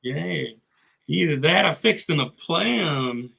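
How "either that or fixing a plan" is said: mock Texan twang; Texan accent. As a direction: play along as a Texan. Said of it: "we just both do Texan".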